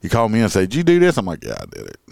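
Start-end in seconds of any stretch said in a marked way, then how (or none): 0.7-1.2 higher, louder questioning boss; mock stern boss. Boss asks the cop if he did it, stern and loud. 1.4-2.0 much lower and softer, owning up; quiet admission. Retold or imitated. Cop admits to the boss, quiet and low.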